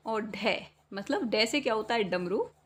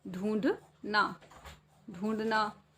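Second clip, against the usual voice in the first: ढूंढना drawn out slowly; dictating ढूंढना slowly; slow dictation; much slower than usual. Shown as a demonstration. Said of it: "ठीक है".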